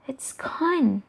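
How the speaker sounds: hushed worried whisper. Acted. Earth whispering fearfully that the sun is gone. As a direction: breathe it like a secret.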